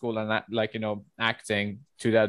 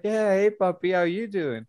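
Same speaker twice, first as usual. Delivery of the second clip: higher, breezy greeting; quoting herself; 7 semitones higher than usual. Retold or imitated. Greeting the gym coworker, high breezy hello. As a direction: greet him like an old buddy. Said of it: "I'm like".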